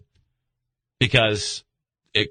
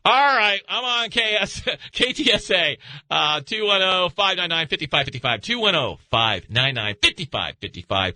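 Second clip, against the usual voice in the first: radio host read; 2 semitones higher than usual. Acted. Reads station call-in numbers.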